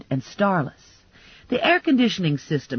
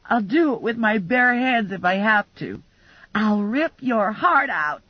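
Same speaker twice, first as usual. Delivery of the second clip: menacing threat; 3 semitones higher than usual. Acted. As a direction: drag out the threat like a killer. Sugar threatens to kill her.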